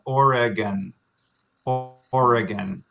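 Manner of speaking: Oregon said slowly, OR-uh-gun, every syllable clear; slow careful Oregon. Shown as a demonstration. Teacher says Oregon slowly and clearly for students. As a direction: lay out Oregon carefully for learners. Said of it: "if I was saying it slowly and, and clearly".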